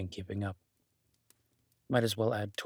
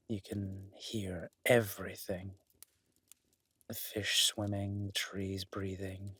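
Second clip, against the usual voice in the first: dreamy and slow; slower than usual. Acted. Dreamy description of lying in grass.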